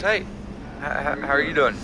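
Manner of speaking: tripping over the first words; stuttering. Real, not acted. Game master voices a stranger's greeting, stuttering by accident. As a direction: stumble on "how", then get it out. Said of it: "that was me, actually, stuttering".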